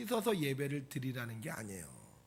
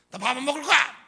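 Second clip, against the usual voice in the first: higher, loud outburst of a sulking wife; upset refusal; 7 semitones higher, 9 dB louder than usual. Acted. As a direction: blurt it out loudly, acting fed up. Upset wife refusing food in story. (속상해서 버럭 소리치듯)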